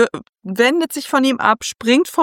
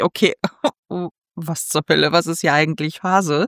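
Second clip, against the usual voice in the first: baffled duke; 5 semitones lower than usual. Retold or imitated. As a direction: mutter it to himself, lost. Duke baffled, inner thought.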